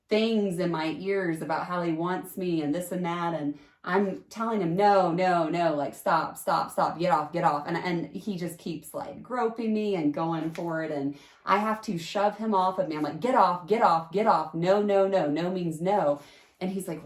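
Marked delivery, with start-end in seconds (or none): 4.8-7.7 firm, louder no, stop, get off; a hint of the panic in the moment; retold shouted refusal. Refusing him while groped. 13.2-16.2 loud, forceful get off and no; louder, insistent no means no; retold yelling at him. Shoving him off her.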